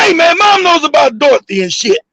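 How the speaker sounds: urgent full-voice warning. Retold or imitated. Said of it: "I just fuck all that whispering".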